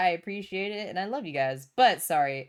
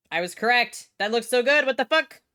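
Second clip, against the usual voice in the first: rising louder and higher in amazement; thrilled outburst at being proven right; excited disbelief; 5 semitones higher, 7 dB louder than usual. Real, not acted. Streamer seeing the design looks so good, excited.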